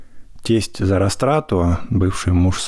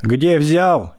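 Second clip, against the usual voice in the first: yelling with all her might; 7 semitones higher than usual. A narrator's reading. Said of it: "изо всех сил кричала".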